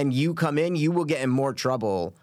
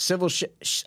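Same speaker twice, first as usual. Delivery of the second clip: stumbling tongue twister; 5 semitones higher than usual. Real, not acted. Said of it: "I can't even say her name".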